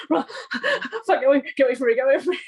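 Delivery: loud, mock panic through laughter; retold panicked screaming. Gamer retelling a horror game scare, mock panicked screaming. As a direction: re-enact a frantic game scream, half laughing. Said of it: "screaming at that".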